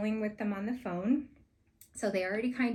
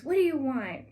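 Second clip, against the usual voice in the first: put-on gruff old chef; 5 semitones higher, 7 dB louder than usual. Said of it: "He was so mean".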